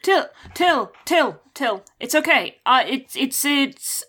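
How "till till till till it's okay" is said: higher-pitched, urgent call of a name; calling out in character. Acted. Player as character calls to Till in the boat, urgent calling. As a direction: call to a friend, then reassure them.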